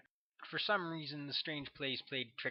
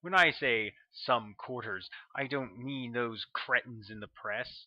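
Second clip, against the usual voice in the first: louder, commanding officer laying down the line; forceful colonel; 7 dB louder than usual. A narrator's reading. Colonel correcting the agent about the black op, forceful and commanding. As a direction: press the point like a commander.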